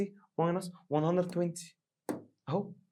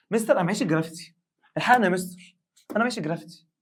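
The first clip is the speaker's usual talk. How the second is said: high, loud mock student pleading; panicked student; 5 semitones higher, 11 dB louder than usual. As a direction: play a student begging the teacher for help. Teacher voices panicking student. (طالب مذعور يستنجد بالمدرس بصوت عالي)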